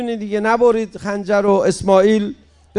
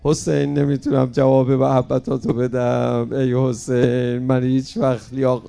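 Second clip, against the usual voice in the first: sad lament; 5 semitones lower than usual. Shown as a demonstration. Preacher showing the crowd how to mourn Hussein, low and sorrowful. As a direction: mourn as if weeping before him. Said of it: "غمگین باش".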